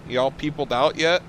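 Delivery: high, loud upbeat hello; cheery greeting. Real, not acted. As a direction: greet him with a big bright energy. Greeting a chatter enthusiastically.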